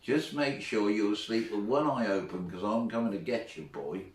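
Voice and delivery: lightly voiced tough-guy warning; Clint Eastwood. Boy warns his teacher at bedtime, lightly imitated Clint Eastwood. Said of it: "in this Clint Eastwood stroke accent".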